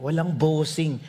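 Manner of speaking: normal talking voice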